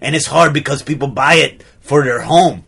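put-on French-Austrian accent; affected accent. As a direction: artist in a muddled European accent. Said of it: "affect an accent".

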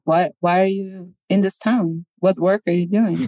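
lightly imitated Swedish accent; bad Swedish accent. Girlfriend grilling the visitor at dinner, mock Swedish accent. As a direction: press for answers in a rough Swedish accent. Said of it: "that's not even a Swedish accent".

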